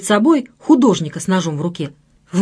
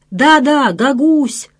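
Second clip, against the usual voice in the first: enthusiastic shout; 4 semitones higher, much slower than usual. Acted. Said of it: "закричали они с энтузиазмом".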